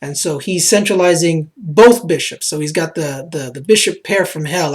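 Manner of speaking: a light, put-on Croatian accent that drifts toward Russian; mock Croatian accent that keeps slipping; Agat Mator Croatian accent. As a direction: chess commentary in a half-held Croatian accent. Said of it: "I'm wearing this accent".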